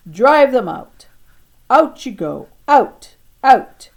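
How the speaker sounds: slow, loud cries to drive the enemy off; chasing shout. Acted. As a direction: shout them out of the kingdom. Chasing imaginary enemy away.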